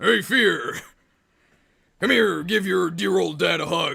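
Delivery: hearty warrior voice, rough, loud, booming and high. Demonstrating one of the voices they do, the generic warrior voice for Bartray. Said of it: "the generic warrior one".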